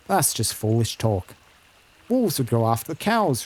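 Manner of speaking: lightly voiced country herder; a hint of a stubborn farmhand; opinionated rustic herder. Herder blaming ogres for the killings, lightly rustic and sure of himself.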